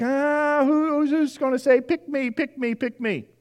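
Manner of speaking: high, eager pleading cry; eager animals. Pretend. Animals begging God to choose them, high and eager. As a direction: beg to be picked like a keen kid.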